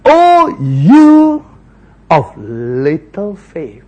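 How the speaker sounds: rebuke. Acted. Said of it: "Jesus rebuked him".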